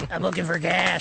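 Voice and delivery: a light Eddie Murphy voice; laughing Eddie Murphy bit; Eddie Murphy impression. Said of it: "do the impression".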